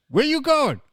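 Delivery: high-pitched mock cabbie question; mock Uber driver. Host spoofing an Uber driver to mates, high mock cabbie. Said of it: "Peter actually became an Uber driver".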